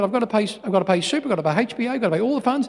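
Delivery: mildly hammed-up harried dad; exasperated father. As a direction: rattle off the bills in protest. Father listing his bills to son.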